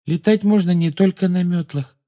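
placid, high-voiced contradiction; serene. A narrator's reading. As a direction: object lightly and untroubled. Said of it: "безмятежно возразила Полумна".

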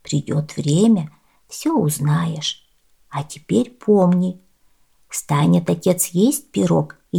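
a hint of a kindly old woman; lightly voiced old woman.

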